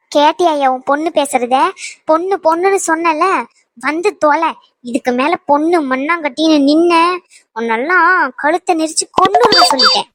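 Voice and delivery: acted anger, rising into a threat; angry threat. Woman threatens her daughter in a quarrel, angry. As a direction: let the threat build to its last words.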